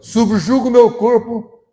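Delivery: slow, loud, high proclaiming voice; Paul's solemn declaration. Retold or imitated. Apostle Paul's vow, proclaimed slowly and loudly. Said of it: "disse o apóstolo Paulo".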